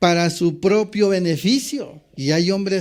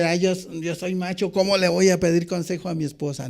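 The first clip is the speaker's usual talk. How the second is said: proud macho; faster than usual. Retold or imitated. A preacher mocks a proud husband, lightly macho. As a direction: lightly play the prideful husband. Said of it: "tienes el orgullo como hombre".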